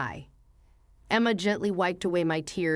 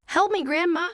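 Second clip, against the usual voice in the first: higher and louder desperate plea; pleading cry; 9 semitones higher, 4 dB louder than usual. Acted. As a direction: beg her grandma urgently. Child begging grandma for help.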